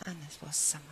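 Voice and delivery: unvoiced closing whisper; whispered ending. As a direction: let the title fall away in a breath. Poem's whispered closing line.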